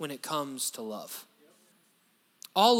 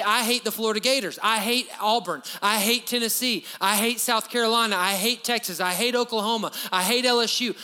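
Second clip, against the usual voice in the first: higher and louder, punching every hate; mock loud rivalry rant; 4 semitones higher, 4 dB louder than usual. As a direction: bellow the rival teams like a fan. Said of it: "you might say".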